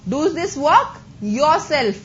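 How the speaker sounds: slow, with yourself set apart after a pause; stress on yourself. Shown as a demonstration. Teacher showing an emphatic example to students, stress on yourself. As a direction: separate and lean on yourself. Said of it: "जोर डाल के बोल रहे हैं".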